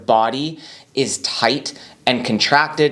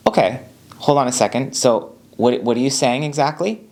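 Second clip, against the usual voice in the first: relaxed. Shown as a demonstration. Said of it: "We stay relaxed for a moment".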